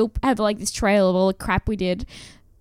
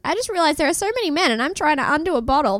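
mocking quote; 5 semitones higher, faster than usual. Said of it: "and she says".

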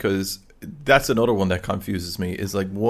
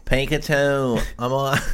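put-on Dublin accent; 3 semitones higher, slower than usual. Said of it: "from Dublin sound like".

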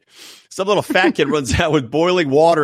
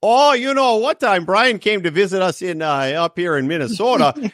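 put-on higher Minnesota accent, oofta and all; 4 semitones higher than usual. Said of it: "that's the accent is".

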